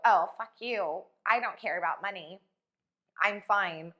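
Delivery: mock defiance. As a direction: sneer it as a scarce-minded woman. Mocking woman with low standards.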